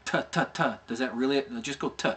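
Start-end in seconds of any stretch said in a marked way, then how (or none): 0.0-0.6 t, t, t said as bare clicks without a vowel; crisp t, t, t with no vowel; bare t sounds. Shown as a demonstration. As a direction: tap t, t, t with tongue only. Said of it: "what's a T".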